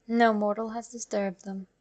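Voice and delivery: ordinary delivery, nothing marked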